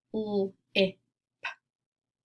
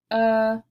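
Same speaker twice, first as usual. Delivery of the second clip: "u" punched much louder as the peak of the word; stressed vowel; 8 dB louder than usual. Shown as a demonstration. Teacher to class, showing the middle vowel, stressed loud. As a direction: hit the vowel "u" hard, like the top of a roller coaster. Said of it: "really emphasizing that middle vowel sound".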